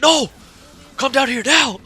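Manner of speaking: high, loud, impatient order; imitated yelling. Girlfriend refuses to wait for boyfriend upstairs, imitated yell. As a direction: mimic an angry girlfriend demanding him now. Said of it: "she yells at me".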